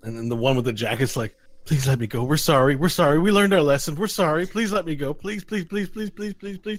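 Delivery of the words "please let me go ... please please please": rising higher and higher as it begs; frantic pleading. Acted. Captured gnome begging the adventurers for release, frantic pleading. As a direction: beg in a stream, loud at first, then thinning to high repeated pleas.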